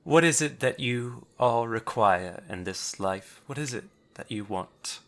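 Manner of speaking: monocled gnoll. Acted. Monocled gnoll asking intruders what they want, lightly put-on formal voice. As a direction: question the intruders with formal composure. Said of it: "He looks up at you through his monocle and says".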